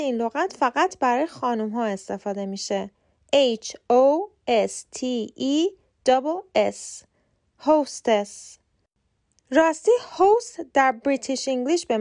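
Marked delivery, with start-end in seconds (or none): 3.3-8.6 very slow letters, then هاستس as "hostes"; slow teacher spelling of هاستس; spelled out then modelled. Shown as a demonstration. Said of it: "لغت هاستس هم داریم".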